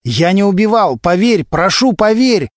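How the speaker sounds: high, desperate cry to be believed; acted anguished plea; agitated pleading. A narrator's reading. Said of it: "не успокаивался Глущенко".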